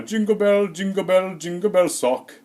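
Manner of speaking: high, imitated grade-schooler delivery; put-on high kid voice; kid performing his joke. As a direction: repeat it like a joke routine, drawing out the end. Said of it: "I'm gonna execute it now".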